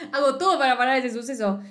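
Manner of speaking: laughing while you say it; amused, giggling repeat. Real, not acted. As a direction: repeat the plan through giggles.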